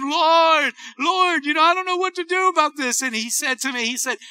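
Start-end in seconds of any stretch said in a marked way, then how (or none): 0.0-3.0 high-pitched acted plea; anxious, worked up. Preacher retells praying full of anxiety, worked-up plea. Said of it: "I was so full of anxiety".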